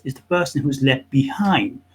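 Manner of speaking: ordinary talk, nothing marked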